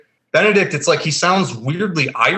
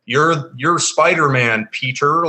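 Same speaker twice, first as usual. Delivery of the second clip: put-on forced American accent; slower than usual. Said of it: "talking like that weird, like, forcing an American accent thing".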